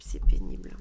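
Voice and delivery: loud, low exasperated groan; râlerie forte. Real, not acted. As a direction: blurt it out, fed up. Repeats it aloud. (c'est pénible, grogné fort)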